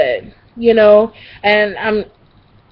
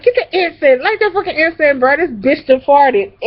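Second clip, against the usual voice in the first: bossy cousin; 6 semitones higher than usual. Retold or imitated. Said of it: "So she was like".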